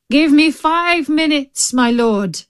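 high, anxious plea; humble, pleading storybook voice. A narrator's reading. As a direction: beg the tiger for time. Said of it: "he pleaded".

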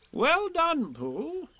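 high-pitched, hearty praise; kindly. A narrator's reading. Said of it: "said Rabbit kindly".

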